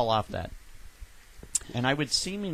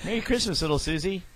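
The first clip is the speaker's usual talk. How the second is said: higher sweet doll voice; talking doll voice; 4 semitones higher than usual. Pretend. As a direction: chirp it like a toy. Continues doll voice.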